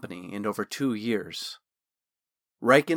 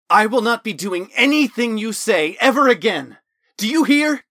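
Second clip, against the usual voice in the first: furious shout; 10 semitones higher, 8 dB louder than usual. Acted. Talon breaking with the voice in his head, shouting. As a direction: slam the door on it for good.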